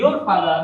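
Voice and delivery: your father with the r in your sounded; R pronounced. Shown as a demonstration. Teacher quoting common usage, r heard in your father. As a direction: keep the r on your. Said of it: "আমরা সাধারণত বলি".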